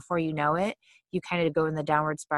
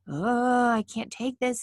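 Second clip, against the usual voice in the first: high, exasperated groan into words; irritable; 6 semitones higher, slower than usual. Acted. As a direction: act overwhelmed and out of patience. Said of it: "feeling irritable".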